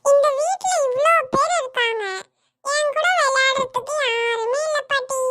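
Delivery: put-on a boy sobbing his complaint; whiny crying. Boy complaining to grandma, crying and whining. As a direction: cry it out like a sulking kid. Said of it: "ஏன்டா அழுதுட்டே வர?".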